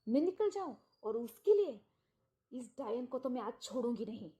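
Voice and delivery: mock yell at the other woman, then drop; a wife screaming her rage, retold; furious shout. Furious wife confronts the mistress.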